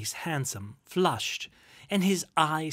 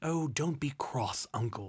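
ordinary delivery

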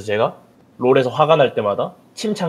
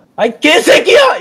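acted-out, re-enacted shout, much higher pitched; 8 dB louder than usual. Re-enacting yelling at a game at home, retelling a shout. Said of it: "그렇게 소리치면".

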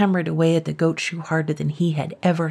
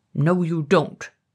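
sputtering, fizzling, spluttering put-on dragon voice. Narrator reading a dragon that has caught a man by the leg, spluttering dragon voice. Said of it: "said the dragon in a spluttering voice like a damp squib".

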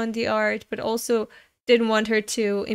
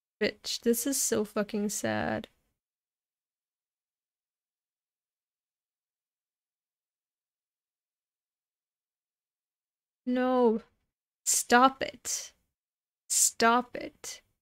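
words spoken while crying, through tears; 4 dB quieter than usual. Reacting to a sad story about Fujino, crying while talking. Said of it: "Why am I crying?".

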